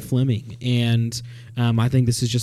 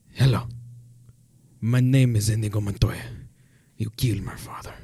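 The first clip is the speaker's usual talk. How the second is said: menacing whisper; 5 semitones lower, 7 dB quieter than usual. Acted. Inigo Montoya line.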